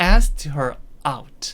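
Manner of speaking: "asked" punched hardest, "her out" light. Explaining how to say an English phrase, strongest stress on asked. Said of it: "ask에다 강세를 주면서".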